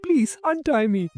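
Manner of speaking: high-pitched pleading; desperate plea. A narrator's reading. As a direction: beg desperately to be freed. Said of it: "desperately pleaded".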